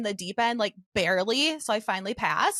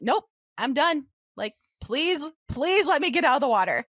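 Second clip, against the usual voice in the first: retold pleading; 3 semitones higher, 3 dB louder than usual. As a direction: beg to be let out, imitating yourself. Retelling begging to leave the water.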